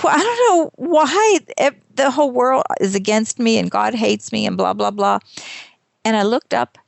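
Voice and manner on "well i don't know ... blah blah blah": high wail easing into a mild whine; mock crying. Stranded in broken-down car, retold mock crying. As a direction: imitate your own tearful self-pity, half-hearted. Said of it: "I'm sitting there crying".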